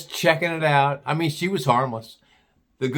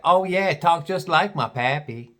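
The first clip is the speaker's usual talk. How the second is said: imitated Southern gal; deep Southern accent; 3 semitones higher than usual. Gal describes her mama's talk, mock Southern accent. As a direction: put on a Southern girl's accent. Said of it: "She had a real deep Southern accent".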